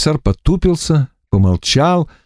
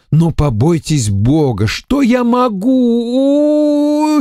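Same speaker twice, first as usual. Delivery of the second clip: slow, drawn-out wheedling, rising high at the end; pleading purr; 12 semitones higher, much slower than usual. A narrator's reading. Эмиссар медленно умоляет, растягивая слова. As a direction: beg her mercy sweetly. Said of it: "ласково замурлыкал".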